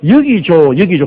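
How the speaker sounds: 여기 조 as YEO-gi jo, syllables stretched; Southeast Asian mispronunciation. Retold or imitated. Southeast Asians greeting the pastor by name, slow mispronunciation. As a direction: say 여기 조 slowly, first one drawn out. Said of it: "동남아에 가니까는".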